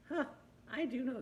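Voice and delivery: sudden high, loud "huh, I do know"; the penny drops mid-word; surprised recognition. Retold or imitated. Teacher voicing a pupil's surprised realization. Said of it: "say it in the way that makes you think".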